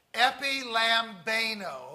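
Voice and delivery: loud, drawn-out Tennessee-accented Greek; slow, emphatic Tennessee take on Greek; Tennessee pronunciation. Shown as a demonstration. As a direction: say the Greek word like a Tennessee boy. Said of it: "that's the Tennessee pronunciation".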